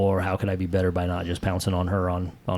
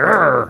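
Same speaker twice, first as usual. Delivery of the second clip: 1 mock growl; 7 semitones higher, 5 dB louder than usual. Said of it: "like a panther out of the tree".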